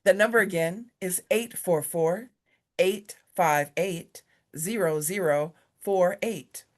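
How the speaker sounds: slow, bright phone-sales read of the number; telemarketing voice. Real, not acted. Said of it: "I love dusting off my telemarketing voice".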